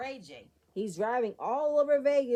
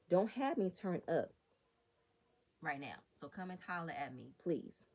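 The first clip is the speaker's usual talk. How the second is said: hushed, lower retelling of a whisper; retold whisper; 3 semitones lower, 5 dB quieter than usual. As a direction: drop your voice, imitating a private warning in someone's ear. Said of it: "He whispers in her ear".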